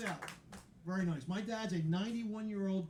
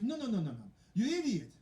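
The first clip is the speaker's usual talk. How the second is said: louder, higher insistent cashier; mock the clerk pressing the point; hammed-up insistent cashier; 3 semitones higher, 4 dB louder than usual. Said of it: "She goes".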